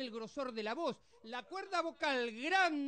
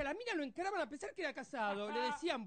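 usual speaking voice

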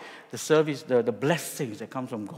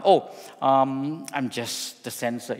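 very politely; slower than usual. Retold or imitated. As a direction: play it down politely, gently. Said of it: "Very, very politely".

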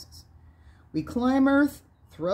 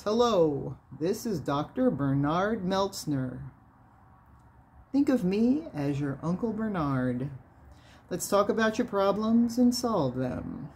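lightly voiced low, resonant, slow radio doctor; a hint of a calm radio host, slowing down. Radio host greets his callers, lightly voiced low and slow. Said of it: "say in a low, resonant, slow, clear voice".

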